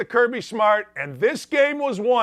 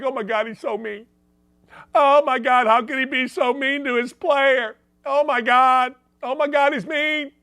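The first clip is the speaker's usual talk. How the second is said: whiny, higher mock outrage; mocking media; 3 semitones higher than usual. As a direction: sneer at the pearl-clutching press. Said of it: "all the little media pukes are like".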